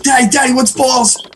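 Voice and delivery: put-on high-pitched, eager child impersonation; little boy voice. Little Johnny running over to dad, high child voice. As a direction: pester dad like a curious kid.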